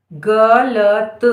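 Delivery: very slow dictation; गलत drawn out as ग, ल, त; syllable by syllable. Shown as a demonstration. Dictating word sound by sound.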